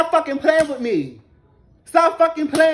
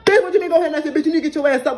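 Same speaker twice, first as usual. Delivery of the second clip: outraged retort; 2 semitones higher, faster than usual. Retold or imitated. Outraged reply to his retold order.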